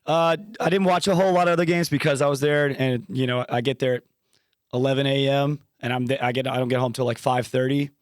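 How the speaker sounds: hoarse, worn-out voice after screaming. Real, not acted. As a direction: speak with a voice shredded from yelling all day. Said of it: "My voice is gone from screaming".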